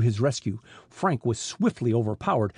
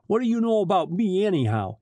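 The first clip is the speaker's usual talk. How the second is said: higher, mildly rough challenge; rough demand; 7 semitones higher, 3 dB louder than usual. A narrator's reading. Smuggler chief challenging his captive, a little rough. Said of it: "he demanded roughly".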